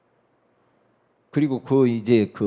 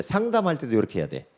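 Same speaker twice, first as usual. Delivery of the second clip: usual speaking voice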